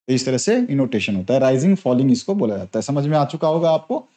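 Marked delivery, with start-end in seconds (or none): none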